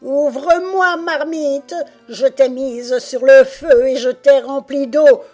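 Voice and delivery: high, loud witch fury; enraged witch. A narrator's reading. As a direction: roar as if about to burst. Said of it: "gronda la sorcière au bord de l'apoplexie". (sorcière au bord de l'apoplexie, voix forte)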